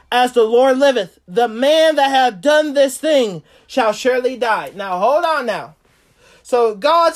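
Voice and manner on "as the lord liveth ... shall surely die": loud angry oath, pitch up; David's angry vow. Acted. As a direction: thunder out the king's verdict. David's angry vow read aloud.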